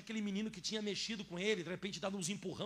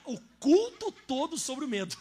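higher, louder, slow amused voice; laughing while telling; 7 semitones higher, 11 dB louder, slower than usual. Real, not acted. Pastor laughing at preaching on fear in the blackout. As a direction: laugh through the irony.

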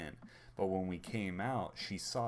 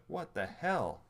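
higher mock outrage of a left-out baby; put-out and higher-pitched; indignant baby; 5 semitones higher, slower than usual. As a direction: voice a baby's affronted protest. Voicing crying baby's indignant protest.

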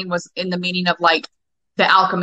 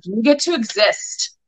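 slow affirmation; 3 semitones higher, slower than usual. Shown as a demonstration. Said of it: "can be like".

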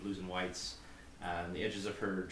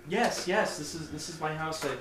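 high, stammering nervous answers; a hint of a scared girl; frightened young woman; 6 semitones higher, 5 dB louder than usual. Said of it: "the scared, shaky voice".

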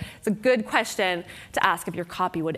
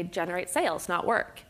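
stiff, slightly robotic slogan voice; mild mock robot delivery; 3 semitones lower, 5 dB quieter than usual. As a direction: recite it like a stiff tagline, a bit softer. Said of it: "It's a little robotic".

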